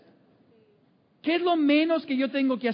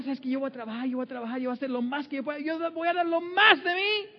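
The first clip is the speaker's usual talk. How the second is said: determined worker; 2 semitones higher than usual. Retold or imitated. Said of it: "en vez de pensar".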